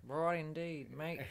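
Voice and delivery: broad Aussie twang; broad Australian accent. Shown as a demonstration. Host confirming the example to co-host, broad Australian accent. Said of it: "that's the broad accent".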